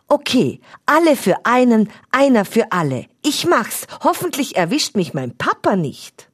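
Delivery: brave but a little nervous; boy vowing to help his friend; eager boy Stefan. A narrator's reading.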